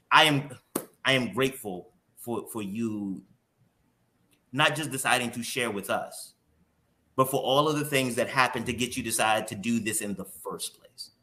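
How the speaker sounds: halting, heartfelt thanks; emotional. Real, not acted. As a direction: speak from the heart, with pauses as feeling wells up. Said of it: "I get emotion".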